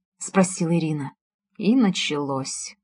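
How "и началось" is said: plain reading voice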